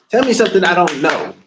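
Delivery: daring them to tell him something new; emphatic challenge. Real, not acted. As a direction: throw the challenge down hard. Repeats line more forcefully.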